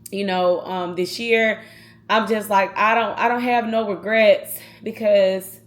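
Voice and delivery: holding back tears while talking about her uncle; real emotion rising in the voice; getting emotional. Real, not acted. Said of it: "I'm sorry I'm getting emotional".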